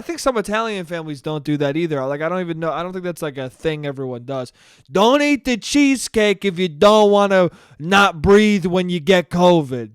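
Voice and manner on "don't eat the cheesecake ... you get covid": mock Cuomo. Cuomo voice continues.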